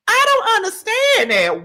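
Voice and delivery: high, incredulous outburst; exasperated disbelief. Real, not acted. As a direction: throw up your hands, can't believe it.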